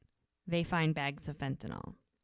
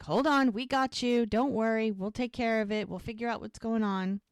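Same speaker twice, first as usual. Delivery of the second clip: higher-pitched, lightly acted reassurance; retold reassurance; 4 semitones higher than usual. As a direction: imitate staff settling a patient who needs help. Both reassure the arriving patient.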